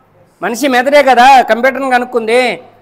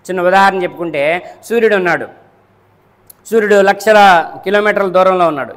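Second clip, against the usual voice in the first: ordinary delivery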